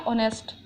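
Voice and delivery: ऑनेस्ट said with an open O and a silent h; "ऑनेस्ट" starting straight on the vowel, no h; showing the sound. Shown as a demonstration. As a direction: pronounce ऑनेस्ट as onest, the h dropped. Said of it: "इसका sound क्या हो गया".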